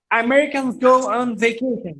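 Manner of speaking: slow teacher drill; slow model sentence. Shown as a demonstration. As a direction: drill it slowly for the class. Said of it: "repeats model sentence".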